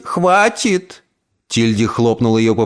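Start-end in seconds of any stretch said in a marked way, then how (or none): 0.0-1.0 put-on high, snapped old-woman "Хватит!"; sharp stop. Aunt snaps at the panicking niece, sharp. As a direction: cut her off.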